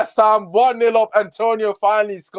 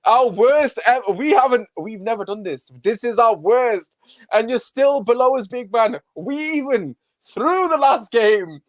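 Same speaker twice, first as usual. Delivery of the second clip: gloating taunt; 4 semitones higher than usual. Real, not acted. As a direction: lean on every word to rub their noses in it. Taunting rival fans directly.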